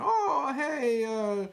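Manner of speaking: high, eager Italian host voice, lightly done; a light impression of a chatty Italian restaurateur; Italian restaurant owner. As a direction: play a friendly Italian waiter seating guests. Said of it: "you know, that guy".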